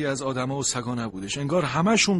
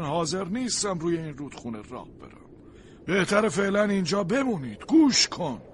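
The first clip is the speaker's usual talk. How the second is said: higher, urgent caution; stern stranger warning; 5 semitones higher than usual. Acted. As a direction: try to talk sense into a fool. Stranger warns Rocky.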